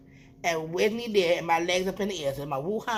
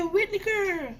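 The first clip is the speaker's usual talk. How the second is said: high exclaim; 13 semitones higher, slower than usual. Retold or imitated. Crying out to the waxer.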